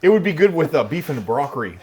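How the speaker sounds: bad actor. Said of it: "You sound like a bad actor".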